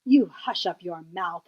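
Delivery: a mild, lightly angry retort; mock howl. King tells complaining Mac to hush, mildly angry. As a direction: hush him with a touch of scorn. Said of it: "howled the mighty King Yertle".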